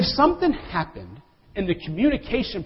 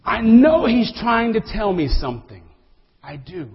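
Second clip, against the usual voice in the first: a hint of puzzled Marlin, "know" leaned on and falling; Marlin's puzzled remark; 4 semitones higher, 5 dB louder than usual. Marlin puzzling over the turtle's chatter, mildly bemused. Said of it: "Marlin the fish looks at him and says".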